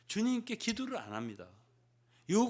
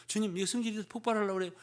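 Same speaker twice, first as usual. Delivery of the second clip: exasperated plea; 5 semitones higher, faster than usual. Acted. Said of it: "막 승질이 나려고 그래요".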